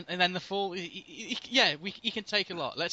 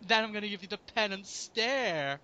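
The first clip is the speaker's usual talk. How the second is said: camp spirit of vengeance; 4 semitones higher than usual. Acted. Continues camp Ghost Rider act.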